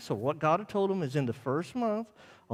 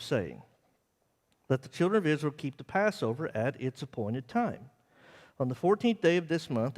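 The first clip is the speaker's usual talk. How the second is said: scripture reading. Acted. Preacher reading scripture to the congregation, measured. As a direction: read the verses out steadily to the church. Reads Numbers nine aloud.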